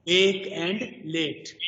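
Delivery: "ache and late" said slowly with one held vowel; single-sound long A. Shown as a demonstration. Teacher demonstrating long A as a single sound, slowly. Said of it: "some dialect pronounce the long A sound as one single sound".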